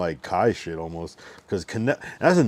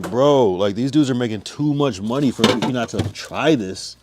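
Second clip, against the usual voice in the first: excited; 3 semitones higher, 6 dB louder than usual. Retold or imitated. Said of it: "but I was like".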